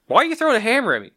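high, fast, baffled question; confused DM. Retold or imitated. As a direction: sputter it in disbelief. DM voiced in retelling.

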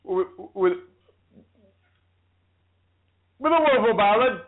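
repeating little words, then pushing through; halting, stuck recitation; stammering. Real, not acted. Woman reciting Shakespeare with jammed hearing, real stammer. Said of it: "feel like the damn King's Speech".

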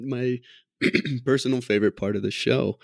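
hoarse, strained voice after clearing throat; a voice that is giving out, hoarse; losing voice. Real, not acted. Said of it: "I'm losing my voice over here".

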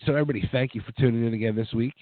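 hoarse from a cold; sick voice. Real, not acted. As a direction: talk through a sore throat. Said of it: "with my sick voice".

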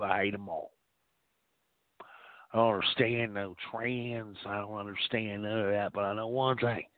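lightly voiced redneck uncle, scornful; a hint of a bigoted Texas uncle sounding off; Jeb Kush rant. Character monologue as Jeb.

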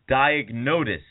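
Diagnosis said as "diag-NODE-is"; mispronunciation. Shown as a demonstration. Showing how the guest garbled Diagnosis as "diag-NODE-is". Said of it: "he also pronounced it Diagnosis".

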